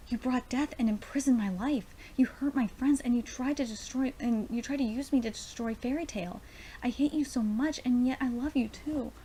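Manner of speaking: emphatic, heartfelt dialogue reading; dramatic manga reading. Acted. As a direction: read the character's confession out with feeling. Reads manga dialogue aloud.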